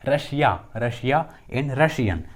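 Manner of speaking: रशिया and रशियन slowly, with SH in the middle; double S as SH. Shown as a demonstration. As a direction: teach रशिया with its SS said as SH. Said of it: "double एस के बाद आईए रहता है". (रशिया, रशियन में SS को "श" बोलते हुए)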